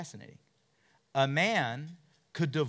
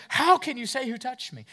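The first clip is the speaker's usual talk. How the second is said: incredulous disciple; 9 semitones higher, 4 dB louder than usual. Acted. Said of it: "he goes".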